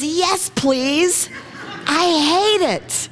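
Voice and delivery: a high, laughing android voice; Data again. Retold or imitated. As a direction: ask for another while hating it. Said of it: "he goes".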